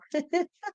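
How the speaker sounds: short high laugh through tears; embarrassed little laugh; teary laugh. Real, not acted. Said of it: "get emotional".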